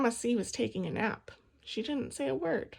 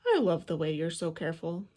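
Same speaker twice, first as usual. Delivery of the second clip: Dad's voice; 5 semitones lower than usual. A narrator's reading. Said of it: "said Dad".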